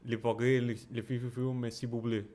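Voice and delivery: a light put-on French accent; halting, lightly done French accent. Shown as a demonstration. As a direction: fumble through words in a mock French accent. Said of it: "I can do my French accent".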